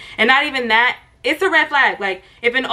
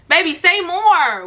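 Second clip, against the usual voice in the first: high, loud, teasing "say more"; higher, louder flirty comeback; 6 semitones higher, much slower than usual. Real, not acted. Answering Manny's "say less" higher and louder, teasing. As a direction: bounce the line back higher and louder, then draw it out. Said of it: "Say less".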